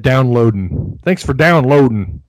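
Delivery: downloading repeated as "downloadin'"; self-mocking "downloadin'", g dropped from downloading. Shown as a demonstration. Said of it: "I just said downloading".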